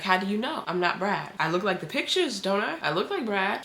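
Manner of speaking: retold sassy challenge, lilting up at the ends; a light mock-sassy tease. Stranger taunting her, imitated with mock sass. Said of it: "He got a little sassy with it".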